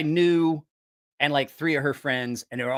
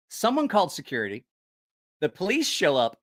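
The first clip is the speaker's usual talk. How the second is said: ordinary delivery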